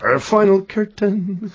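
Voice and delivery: curtain with a hard, clear T, slowly; crisp crooner's T. Retold or imitated. Crooning the final curtain like a singer's tape. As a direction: spit out the T in curtain. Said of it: "He really pronounces the T".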